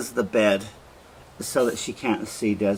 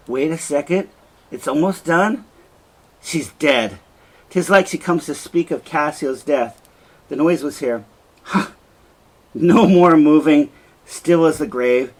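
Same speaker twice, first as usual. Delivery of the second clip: agitated murmur; 4 semitones higher, 6 dB louder than usual. Acted. Othello panicked at the door.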